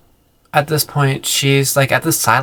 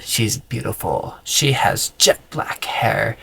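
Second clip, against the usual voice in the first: hushed reading; 2 semitones lower, 4 dB quieter, slower than usual. Pretend. Reads the book passage aloud.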